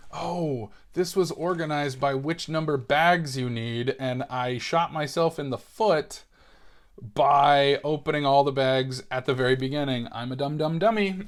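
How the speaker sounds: put-on light Maine accent, old-man tone; a hint of a Maine kid grumbling. Kid with a thick Maine accent scolding himself. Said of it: "thickest Maine accent".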